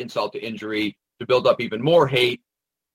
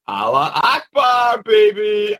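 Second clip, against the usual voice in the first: high, loud, drawn-out mocking shout; hammed-up triumphant yell; mock battle cry; 9 semitones higher, 6 dB louder, slower than usual. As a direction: shout it slowly like a hammed-up slogan. Mocking the reported shouted phrase.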